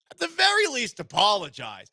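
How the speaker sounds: indignant scold. Real, not acted. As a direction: lecture him sharply. Scolding the suspect.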